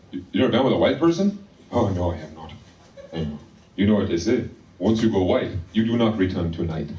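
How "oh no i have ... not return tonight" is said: measured mock Zimbabwean accent. Clerk answers the customer's question, in a Zimbabwean accent. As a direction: confide a saying in a Zimbabwean accent. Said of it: "a white guy with that accent".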